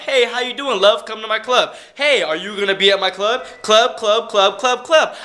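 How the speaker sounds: a hint of a spammy club promoter; mocking spammer. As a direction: imitate a pushy promoter. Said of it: "promo comment".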